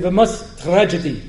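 put-on English word with an Israeli accent; comic Israeli Hebrew accent; mock Hebrew accent. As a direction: imitate an Israeli saying it in Hebrew. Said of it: "That's a Hebrew word".

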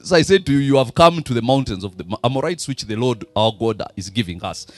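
steady, measured Bible reading to the congregation; scripture reading. Acted. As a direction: read the verses out with weight. Reads scripture aloud.

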